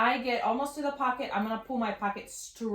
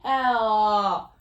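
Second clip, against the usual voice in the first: high, loud thrilled exclamation; excited; 4 semitones higher, 5 dB louder, slower than usual. Real, not acted. Seamstress showing off an invisible seam, excited. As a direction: draw out the last words in delight. Shows off her matched seam.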